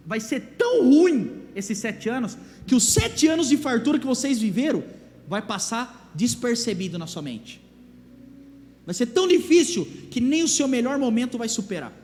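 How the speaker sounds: loud, urgent warning to the king; Joseph warning Pharaoh. Acted. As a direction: boom out the grim prophecy. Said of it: "A ponto dele falar o seguinte".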